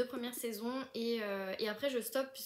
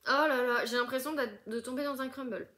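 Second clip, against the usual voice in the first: much louder, excited rush; thrilled exclaim; 7 dB louder than usual. Real, not acted. Sniffing the new tea for viewers, she gushes loudly. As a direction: gush over the smell.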